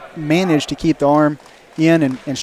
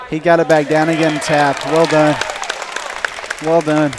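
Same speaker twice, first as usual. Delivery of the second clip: excited; 5 dB louder than usual. Real, not acted. Commentator reacting to tap.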